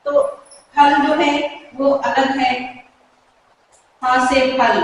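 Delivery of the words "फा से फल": फा से फल with popped "pha"; Hindi aspirated ph. Shown as a demonstration. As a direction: puff air from closed lips on फल. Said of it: "यहाँ पे बिल्कुल फ की साउंड निकल रही है".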